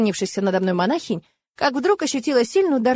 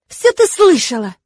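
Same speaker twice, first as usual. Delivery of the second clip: slow, loud angry hiss; 6 semitones higher, 7 dB louder than usual. A narrator's reading. Kurona hissing at the girl, angry and slow. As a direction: hiss it at her. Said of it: "зашипела на меня Курона".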